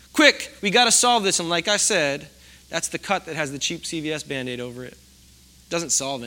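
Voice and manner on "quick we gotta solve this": mock hurried urgency. Mock panicked urge to fix.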